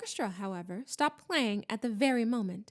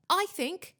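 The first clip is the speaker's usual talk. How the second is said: hurried; 8 semitones higher, 3 dB louder than usual. A narrator's reading. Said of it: "said Harry hurriedly".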